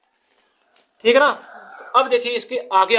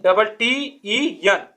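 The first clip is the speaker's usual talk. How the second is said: slow spelling; slower than usual. Shown as a demonstration. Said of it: "अब इसमें क्या जुड़ेगा?".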